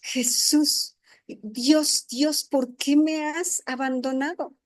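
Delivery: a hint of a strained, fading plea; last weak cry. Preacher voices Jesus' last words with mild anguish. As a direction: give it like his final breath of strength. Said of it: "fue lo último que salió de ahí".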